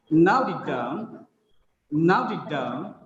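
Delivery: slow model reading, stress on "Now" and "down", light "it"; sentence-stress demo. Shown as a demonstration. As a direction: beat on "Now" and "down". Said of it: "we can identify the stress here".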